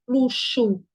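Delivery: LUXO said carefully as "lu-shu"; CH sound demonstrated. Shown as a demonstration. Teacher showing X with CH sound, pronounced carefully. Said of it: "X tem som de C H".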